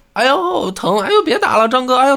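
高声哎呦连连叫疼; 挨鞭子的仆人尖声求饶; 仆人挨打喊疼. Retold or imitated. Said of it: "这个仆人啊就叫". (模仿仆人挨打时高声喊疼)

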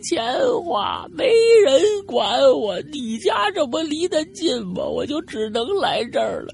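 very high, drawn-out ghostly lament; keen slowly like a wronged spirit; wailing grievance. Acted. Dead uncle wails his grievance. (尖声拖腔哭诉)

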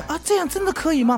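infomercial. Retold or imitated. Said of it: "八仙八剑".

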